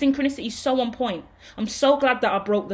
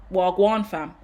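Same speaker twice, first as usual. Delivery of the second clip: London roadman slang greeting; London roadman accent; 2 semitones lower, slower than usual. Pretend. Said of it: "I get all that Nang energy".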